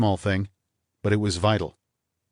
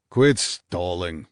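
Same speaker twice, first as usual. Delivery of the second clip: bitterly; much slower than usual. Acted. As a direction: spit it out bitterly. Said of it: "Morney said bitterly".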